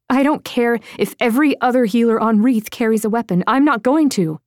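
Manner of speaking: lightly voiced young woman digging in her heels; defiant Lydia.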